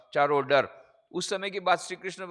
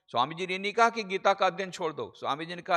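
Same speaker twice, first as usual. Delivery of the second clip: ordinary delivery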